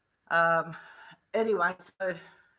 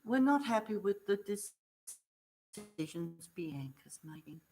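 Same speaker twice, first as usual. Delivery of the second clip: slow stern staff voice; slower than usual. Retold or imitated. Staff member confronting her.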